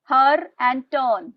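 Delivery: Bird, her and turn read out slowly, word by word; slow dictation. Shown as a demonstration. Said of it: "I want every one of you to write". (धीरे-धीरे बोलकर लिखवाना)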